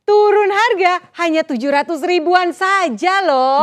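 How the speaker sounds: infomercial. Acted. Announcing promo price on air.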